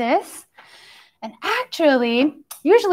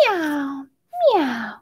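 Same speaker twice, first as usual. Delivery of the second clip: kitty meow; 5 dB quieter than usual. Pretend. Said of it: "they say".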